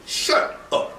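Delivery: whispered, exasperated shut up; muttered to himself. Retold or imitated. Fed up with Shia posts online, whispering to himself. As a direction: hiss it under your breath in irritation. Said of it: "I'm saying to myself".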